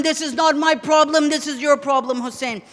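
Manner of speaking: cold enemy reply. Retold or imitated. Shimr dismissing Hussein's plea, low cold contempt. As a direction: answer coldly, dropping the voice away. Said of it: "Shimr tells him".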